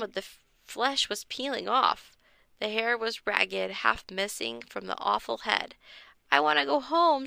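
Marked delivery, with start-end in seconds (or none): 6.3-7.3 higher and louder frightened wail; hammed-up kid's wail; scared wail. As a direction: cry out wanting to go home. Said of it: "Josh wailed".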